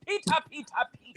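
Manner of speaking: high, sing-song calling; Betty Davis voice. Retold or imitated. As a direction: call the name like Betty Davis. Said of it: "I have to say it like Betty Davis".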